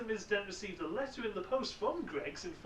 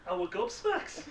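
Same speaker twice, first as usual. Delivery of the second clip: high, hammed-up Teesside accent; 13 semitones higher than usual. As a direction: say it broad Teesside. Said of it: "Can you do it in a Teesside accent".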